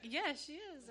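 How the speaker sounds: high, insistent comeback; mock-squabble insistence; retold bickering. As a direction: imitate him firmly arguing back. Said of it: "we're fighting in front of this girl".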